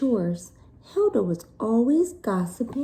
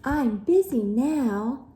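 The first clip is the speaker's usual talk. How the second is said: mild mock shout; 4 semitones higher than usual. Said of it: "shouted Hilda".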